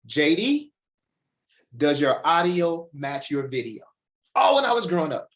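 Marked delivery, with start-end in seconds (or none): 0.1-3.8 mother's voice. Retold or imitated. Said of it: "my mother used to say".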